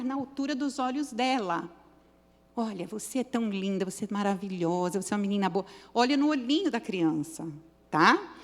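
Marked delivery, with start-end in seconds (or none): 2.5-5.6 tender praise. Shown as a demonstration. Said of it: "Conversa com ela assim".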